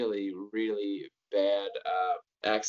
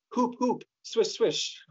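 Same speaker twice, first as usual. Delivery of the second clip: squeaky high chant, much higher; high mock cheer; 10 semitones higher, slower than usual. Imagining Minnie Driver cheering in bed, squeaky and high. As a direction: cheer it high and bouncy like a fan. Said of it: "waiting for her to say".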